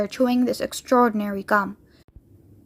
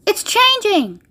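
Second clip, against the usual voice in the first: high excited shout; thrilled raised exclamation; 9 semitones higher, slower than usual. A narrator's reading. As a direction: call out the change with glee. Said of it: "shouted Violet".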